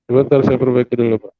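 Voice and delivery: distorted robot voice. Real, not acted. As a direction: voice changer robot sound. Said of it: "Bapak pakai suara robot lah".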